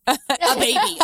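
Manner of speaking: laughing. Retold or imitated. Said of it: "And she's like".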